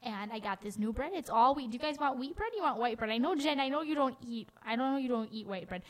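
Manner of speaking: a hint of a fussing grandma listing bread; Grandma Judy impression. Host keeps imitating grandma fussing over the bread, mild. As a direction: rattle off the pantry like a doting grandma. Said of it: "good impression of my grandma".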